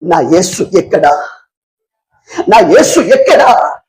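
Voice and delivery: slow, drawn-out imitation of weeping; tearful lament. Preacher voices the weeping woman seeking Jesus, slow mock lament. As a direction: wail it slowly, mildly acted. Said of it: "ఏడ్చుకుంటూ వెళ్ళింది".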